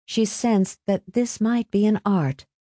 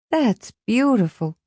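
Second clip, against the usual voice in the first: higher, admiring sigh; 6 semitones higher than usual. A narrator's reading. Marie responds to Omar's verse, sighing. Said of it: "she sighed".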